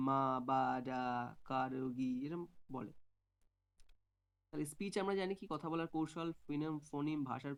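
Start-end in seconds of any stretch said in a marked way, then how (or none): 0.1-2.2 "মা, বা, ডা, কারগি" in level, separated syllables; string out "মা, বা, ডা, কারগি" evenly, starting loud; varied-syllable babbling. Shown as a demonstration. Teacher showing mixed babble, "মা, বা, ডা, কারগি" evenly spaced. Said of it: "আর বিভিন্ন সিলেবল করে".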